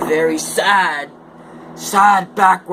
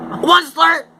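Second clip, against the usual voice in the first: high, loud complaining cry; querulous croak; 13 semitones higher, 4 dB louder than usual. Acted. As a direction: cry out his name in a fussy creature voice. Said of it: "he cried with a querulous croak".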